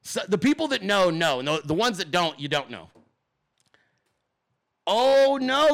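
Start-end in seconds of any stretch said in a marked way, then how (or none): 4.9-5.7 real surprise, a bit hammed-up; mock dismay. Real, not acted. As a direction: gasp it out like bad news just landed. Reacting to DeSantis headline.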